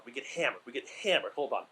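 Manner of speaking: breathless, winded speech; out of breath. Real, not acted. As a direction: talk while catching your breath. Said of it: "I'm out of breath 'cause I'm out of shape".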